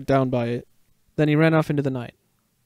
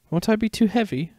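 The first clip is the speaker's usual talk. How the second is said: worried; 8 semitones higher than usual. Acted. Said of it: "Harry said, worried".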